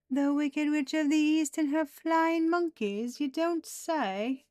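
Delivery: high, loud, theatrical exclamation; mock-dramatic. Tarot reader mocking the sneaky enemy, high theatrical mock-drama.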